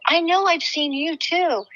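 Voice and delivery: retold reply stressing "you"; emphatic echo. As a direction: echo it back with "you" lifted. Answers her matching line in retelling.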